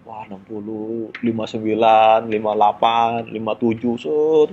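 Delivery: counting down slowly under the breath; tense whispered-style countdown, drawn out. Retold or imitated. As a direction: tick off each number slowly. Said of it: "gua ngitung mundur".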